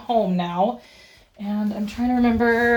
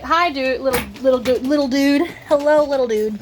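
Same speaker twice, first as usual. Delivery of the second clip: puppy talk; 3 semitones higher than usual. Real, not acted. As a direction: coo at the puppy. Greeting the puppy.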